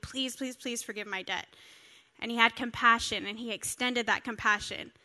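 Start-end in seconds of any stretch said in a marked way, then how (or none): 0.0-1.5 softer, pleading repeat of please; mock begging. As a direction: beg quietly, a touch imitated. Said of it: "the man begged and pleaded".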